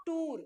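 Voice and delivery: "tour" as one long-vowel syllable, "toor"; "tour" with a plain oo, no glide; wrong pronunciation. Shown as a demonstration. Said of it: "It is not tour".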